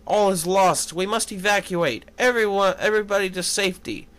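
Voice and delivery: a touch of panic, ordering everyone out; worried urging. Acted. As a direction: rush the last words out in alarm. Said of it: "extremely worried".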